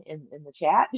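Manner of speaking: usual speaking voice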